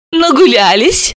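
high, sweet question; sweetly smiling. A narrator's reading. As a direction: ask with a sweet smile. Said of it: "с милой улыбкой спросила Далила".

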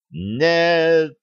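high anguished shout; desperate cry. A narrator's reading. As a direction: cry out in despair. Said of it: "Костин крик".

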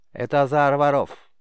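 put-on a boy proudly showing his treasure. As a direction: boast about the amulet. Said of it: "с гордостью сказал Сид".

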